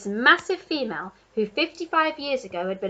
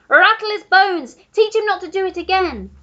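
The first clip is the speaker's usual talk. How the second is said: high, loud cheering giraffe; Giraffe crying out; 9 semitones higher, 11 dB louder than usual. A narrator's reading. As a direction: egg him on gleefully. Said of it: "cried the Giraffe".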